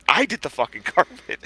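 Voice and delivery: repeating it softly while breaking into a laugh on fucking; the teen laughing at the uncle taking credit, half-laughing; half-laughing mutter. Retold or imitated. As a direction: mutter it again and crack up. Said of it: "standing there quiet".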